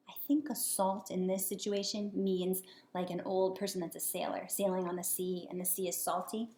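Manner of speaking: soft whisper to the listener; whispered aside. Real, not acted. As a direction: lean in and whisper the explanation. Aside explaining word to children.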